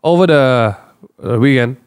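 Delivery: talking with swollen lips; words slurred by sore swollen lips. Real, not acted. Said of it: "Can you enunciate?".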